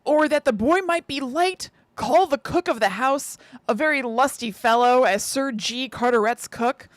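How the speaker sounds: put-on measured reading of an old account; diary reading aloud. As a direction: read the old diary out carefully, phrase by phrase.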